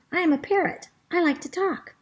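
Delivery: proud parrot. Acted. Parrot proudly declares itself.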